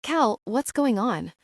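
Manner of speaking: slow, breathless question; panting after running through rain; out of breath. Acted. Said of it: "She's out of breath".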